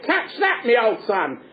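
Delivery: a hint of a Cockney heckler; crowd heckle. Crowd at Newgate calling to Ketch, mild jeering call. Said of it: "people in the audience would say".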